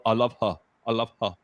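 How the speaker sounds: lightly mimicked Brooklyn speech; a touch of mock Brooklyn; imitated Brooklyn accent. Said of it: "That's what they say".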